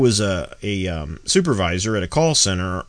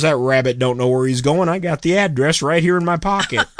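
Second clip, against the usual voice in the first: laughing; 6 semitones higher than usual. Acted. Half-wit laughing at punchline.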